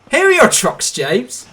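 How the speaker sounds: a small engine poking fun; high, bouncy little engine voice; cheeky little tank engine. A narrator's reading.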